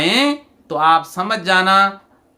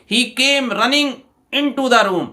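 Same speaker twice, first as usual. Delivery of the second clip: slow example reading; 4 semitones higher, much slower than usual. Shown as a demonstration. Teacher reads example sentence.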